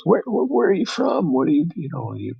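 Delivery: a hint of a tipsy local grilling a foreigner; drunk Russian stranger. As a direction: lightly play the drunk man prodding you. Drunk Russian questions him on train.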